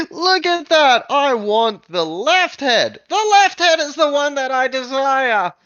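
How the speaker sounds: very high, loud, gleeful shout; tiny goblin demanding the left head, high and thrilled; greedy giggling goblin. Acted. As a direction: gloat and grab with delight. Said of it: "being like".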